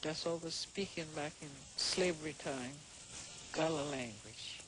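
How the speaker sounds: Sea Island Gullah speech; Gullah accent. Real, not acted. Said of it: "Benjamin and Janie's gullah".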